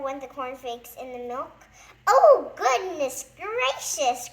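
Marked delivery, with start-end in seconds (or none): 2.1-4.3 loud, slow, high panicked cry; frightened cry. A narrator's reading. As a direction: drag it out in terror. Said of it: "cried Mister Jelly".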